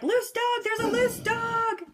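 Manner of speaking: high-pitched panicky dog voice; dog freaking out. Retold or imitated. Owner voicing the dog at a loose dog, mock freaking out. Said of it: "freaking out. He's like".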